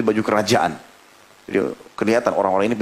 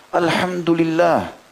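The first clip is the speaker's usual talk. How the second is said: slow grateful alhamdulillah; 6 semitones higher, much slower than usual. Acted. Grieving father praises God.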